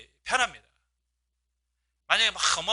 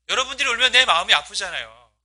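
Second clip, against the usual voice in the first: "여러분들이 울면 내 마음이 아프잖아요" said higher with "내" pressed pleadingly; pleading tenderly; 4 semitones higher, 4 dB louder than usual. Retold or imitated. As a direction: beg them gently, heart aching. Paul comforting weeping believers. (울지 말라고 다정하게 간청하듯)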